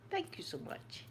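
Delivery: breathy unvoiced thank you, high and soft; soft airy whisper for an ASMR fan. Real, not acted.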